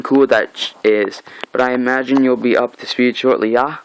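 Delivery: a touch of swaggering menace; voicing Negan. Fan retelling Negan meeting Rick, light cocky villain. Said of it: "He's like".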